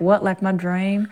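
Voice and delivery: put-on film accent, E's bent toward I's; film character's accent. Actress recalling her favorite line, in the film accent. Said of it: "I think it was like".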